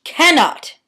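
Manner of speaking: cannot said high with stress on can; cannot, British vowels, falling. Shown as a demonstration. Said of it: "Pronounce it the British way".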